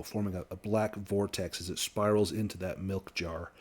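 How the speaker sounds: game master's narration. A narrator's reading. Game master describing the binding to players, measured narration.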